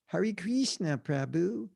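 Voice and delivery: American "Hare Krishna", with HAIR-ee and a long KREESH-na; mock American devotee greeting; American accent. Shown as a demonstration. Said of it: "with that American accent".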